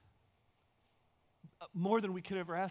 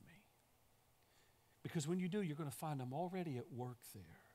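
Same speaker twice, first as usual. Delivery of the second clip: softer, tender, fading to a whisper; gentle reassurance; 2 semitones lower, 5 dB quieter than usual. Acted. God softly answering a frightened Moses, tender and quiet. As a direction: soothe him quietly, almost a hush at the end.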